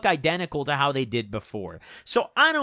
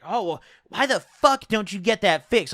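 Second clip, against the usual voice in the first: higher-pitched imitation of her annoyance; mock pissed off; 4 semitones higher than usual. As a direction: mimic her irritated complaint without raising the volume. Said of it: "You could hear it in her voice".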